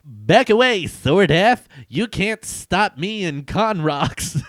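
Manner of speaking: high, loud warning; villain voice. Acted. Villain warning the hero off, high and loud. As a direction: push the hero back like a comic villain. Reading villain's comic speech.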